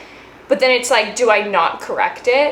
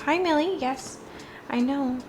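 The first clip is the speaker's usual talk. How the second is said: higher sweet voice for the dog; pet talk; 4 semitones higher, 6 dB quieter than usual. Real, not acted. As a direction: coo at the puppy. Greeting the dog.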